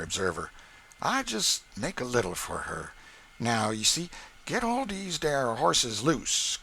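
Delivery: gleeful sly plan; Sam scheming. A narrator's reading. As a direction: plot the delay with a friend. Sam plotting with Andy.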